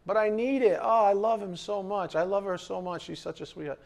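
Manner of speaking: high, pleading mock whine; whiny lovesick voice. Preacher mocking a lovesick person who craves romance.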